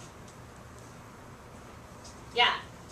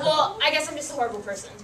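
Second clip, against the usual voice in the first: self-pitying; 5 semitones higher, 4 dB louder, faster than usual. Retold or imitated. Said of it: "What about this one?".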